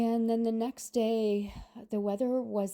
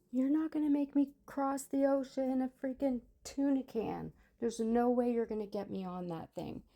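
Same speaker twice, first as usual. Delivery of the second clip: high-pitched mock panic at the ticket guy; retold freak-out about the tuna can boat; panicked protest; 6 semitones higher than usual. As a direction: squeal it like a scared kid refusing.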